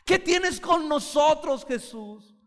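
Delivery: loud, high, slow demonic cry; preacher acting the demon who can't hide anymore. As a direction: let the demon howl at Jesus. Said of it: "Y empezó diciendo".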